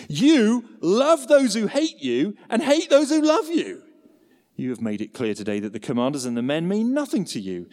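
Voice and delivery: rising anger, loud peak on the rebuke; a preacher's mock-furious general scolding the king; angry rebuke, pushed hard in places; fuming Joab. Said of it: "This guy is fuming".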